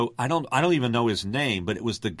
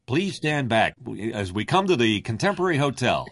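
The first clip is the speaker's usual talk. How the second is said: monorail announcer. Shown as a demonstration. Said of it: "the monorail announcer".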